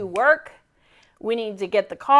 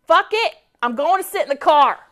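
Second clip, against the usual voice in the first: mock fed up; 5 semitones higher, 5 dB louder than usual. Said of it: "And so I was like".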